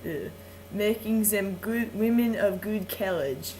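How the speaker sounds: put-on theatrical reading in a French accent; French host reading Shakespeare aloud, hammed-up=; story reading. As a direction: savour the verse like a bedtime story. Ends the speech.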